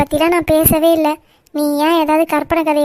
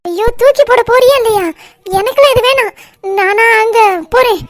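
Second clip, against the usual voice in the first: high, loud frightened cry; panicked shout; 5 semitones higher, 4 dB louder than usual. Acted. Aunty begging the girl to toss the cockroach, panicked high shout. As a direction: yell it in a panic to get the bug away.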